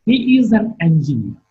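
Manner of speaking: falling tone on engineer; statement with a final fall. Shown as a demonstration. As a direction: let engineer fall at the end. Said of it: "All these are the statements in English".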